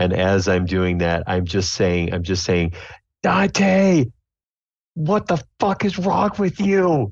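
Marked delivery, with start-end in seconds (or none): 3.2-7.1 blood-curdling scream, much higher pitch. Badly wounded on the ground in the game, the character screams at another: blood-curdling scream. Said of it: "I just scream the loudest blood-curdling scream".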